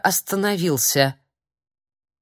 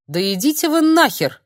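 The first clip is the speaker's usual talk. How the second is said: грубый выкрик; 8 semitones higher, 5 dB louder than usual. Acted. Филипп грубо отвечает старику.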